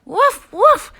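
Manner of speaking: high, loud woofs; playful puppy bark. Acted. Puppy Biscuit answering the reader, playful high barking.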